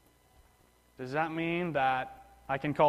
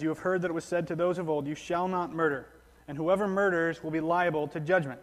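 louder, quicker formal reading; scripture reading; 3 dB louder than usual. Acted. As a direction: proclaim the verse to the congregation. Quotes Jesus reading scripture.

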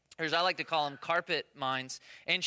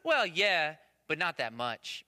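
retold grudging admission; slower than usual. Son to dad about mom's help, retold grudging admission. Son admits mother helped.

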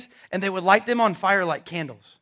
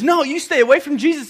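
bold retold shout; 6 semitones higher, 7 dB louder than usual. Peter defending Jesus, retold.

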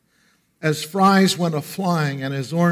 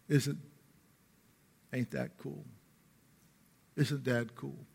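hushed wonder; 13 dB quieter than usual. Pretend. Hushed imagined child.

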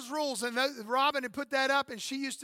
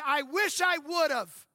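put-on regretful older self; 3 semitones higher, much slower than usual. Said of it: "fifty-three years old and say".

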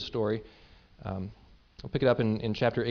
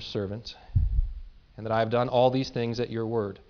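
solemn prayer read aloud; a solemn read-through of Elijah's prayer; scripture reading. Acted.

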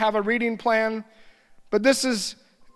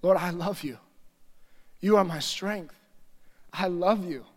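worship prayer. Shown as a demonstration. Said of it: "I would just begin to worship".

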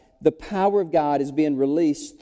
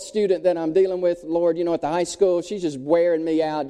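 worried prayer; 2 semitones higher than usual. Retold or imitated.

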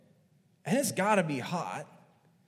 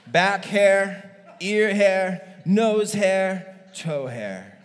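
mock boast; 2 semitones higher, 9 dB louder, much slower than usual. Listing men's hair comically.

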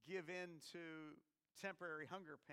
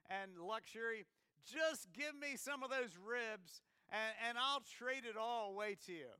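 raised, eager voice begging for food; pleading prince; 4 semitones higher, 5 dB louder than usual. Pretend. Prince offering his throne for ribs, raised, mock-earnest plea. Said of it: "And Prince William says".

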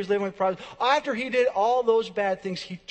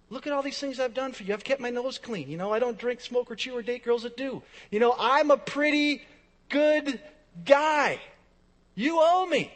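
mildly indignant, higher-pitched boasting; entitled complaint; 4 semitones higher than usual. Acted. Churchgoer bargaining with God, entitled complaint.

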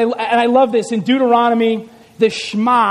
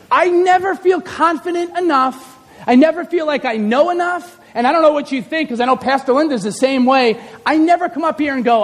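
ordinary delivery

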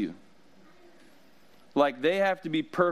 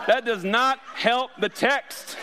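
slow, louder, pitched up through laughter; laughing; 9 semitones higher, 4 dB louder, slower than usual. Real, not acted. Preacher cracking up at his own bad joke, laughing through the words. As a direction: push the words out while cracking up.

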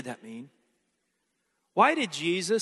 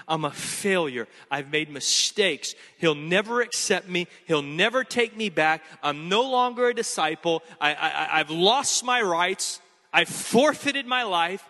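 despairing Peter. Acted. Preacher voices despairing Peter.

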